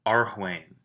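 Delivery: Arwhain said carefully as ar-WHAIN, each sound clear; teacher showing students how to say Arwhain; pronounced name. Shown as a demonstration. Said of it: "is how I would pronounce that".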